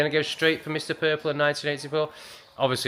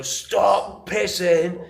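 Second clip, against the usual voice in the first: stern voice; 7 semitones higher, 3 dB louder, much slower than usual. Retold or imitated. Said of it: "I get a stern voice and go".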